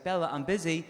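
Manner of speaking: a light, patient brush-off to the dog; mild mock firmness; mildly firm. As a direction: tell the dog off gently. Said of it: "she'll get a little bit stubborn".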